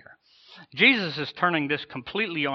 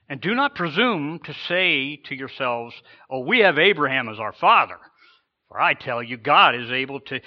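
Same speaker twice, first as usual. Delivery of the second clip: reading the scripture rebuke with preacher's force, louder at peaks; John the Baptist rebuking; 4 dB louder than usual. Acted. Preacher voicing John the Baptist to the Pharisees, a forceful rebuke. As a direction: thunder the prophet's warning, then let it settle. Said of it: "listen to what he says to them".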